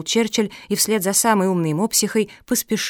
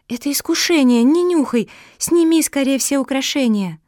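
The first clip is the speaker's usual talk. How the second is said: higher, louder alarmed plea; urgent warning; 5 semitones higher, 4 dB louder than usual. Acted. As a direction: shout at her to stop before it's too late. Mafi urgently warns sister.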